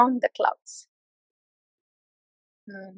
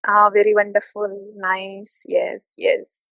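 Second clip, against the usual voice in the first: lower, soothing approval, trailing off; mock flattering praise; 3 semitones lower, slower than usual. Shown as a demonstration. Demonstrating comfortable talk for devotees, mildly soothing. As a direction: lull them with easy compliments. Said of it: "I can speak like this".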